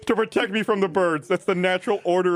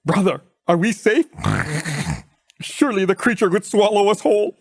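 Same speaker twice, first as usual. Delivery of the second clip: louder, anxious plea to his brother; frightened boar; 4 dB louder than usual. Acted. Youngest boar fearfully asks elder brother if they're safe. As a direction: ask for safety in fear.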